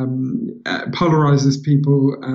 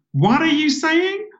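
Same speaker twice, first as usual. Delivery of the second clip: puzzled American waitress; 13 semitones higher, slower than usual. Retold or imitated. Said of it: "She's going".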